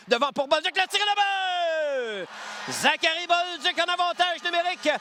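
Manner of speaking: rising shout on the goal; excited goal call. Real, not acted. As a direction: yell the goal. Goal call by play-by-play announcer. (annonce de but enthousiaste)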